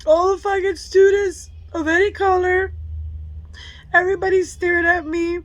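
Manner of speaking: slow, tearful, halting; crying. Real, not acted. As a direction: push each word through the tears. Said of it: "I'm tearing up".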